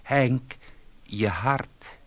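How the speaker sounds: wife calls urgently to her husband on the phone. Acted.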